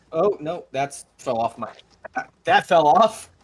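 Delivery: mildly flustered, halting; stressed. Real, not acted. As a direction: fumble through a small mishap. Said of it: "he's so stressed".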